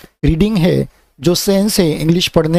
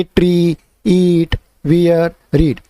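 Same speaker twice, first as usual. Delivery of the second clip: wrong reading order; much slower than usual. Shown as a demonstration. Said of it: "ये आपका एक तरह से रॉन्ग हो जाएगा".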